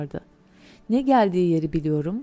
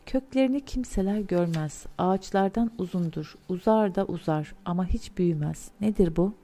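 lightly hissing creature voice; snake. Acted. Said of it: "tıslar gibi bir sesle sordu".

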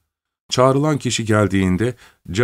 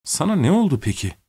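helpless; 6 semitones higher than usual. Acted. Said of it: "Sesinde çaresizlik okunuyordu".

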